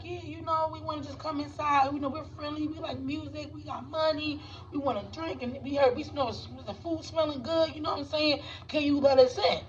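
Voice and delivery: hammed-up friendly plea to get inside; pleading guests. Voicing couple asking to enter.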